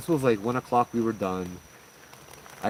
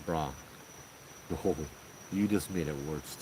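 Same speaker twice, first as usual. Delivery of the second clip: stunned; 6 semitones lower, 8 dB quieter than usual. Retold or imitated. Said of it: "a shocked silence".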